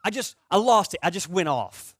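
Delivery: loud, high brother; imitating brother. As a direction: blurt it out like the brother. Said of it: "He'd be like".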